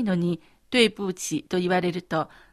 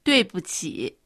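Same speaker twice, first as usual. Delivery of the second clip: apologetic; 2 semitones lower than usual. Shown as a demonstration. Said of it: "申し訳なさそうに言ってみてください".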